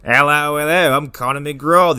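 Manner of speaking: lightly hammed-up Australian accent; joke Australian accent. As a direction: introduce yourself in a mock Australian accent. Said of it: "The joke is I'm Australian".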